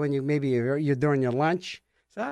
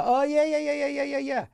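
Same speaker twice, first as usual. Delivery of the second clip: know-it-all; 10 semitones higher than usual. Retold or imitated. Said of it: "one of these know-it-alls".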